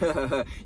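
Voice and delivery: imitating a short, low mocking chuckle; low scoffing chuckle, put on; mock laugh. Zion laughing at his attacker, imitated mocking laugh. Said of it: "like, kinda laughing at him".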